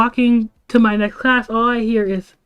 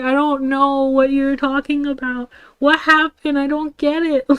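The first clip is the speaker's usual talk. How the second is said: higher-pitched, helpless protest; confused; 4 semitones higher than usual. Retold or imitated. Student answering an angry friend, confused. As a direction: act out having no clue. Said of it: "I'm sitting here confused".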